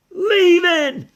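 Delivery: very high, worried squeaky voice; a nervous pup whispering from the door; timid little dog. Acted. Drover's high character voice.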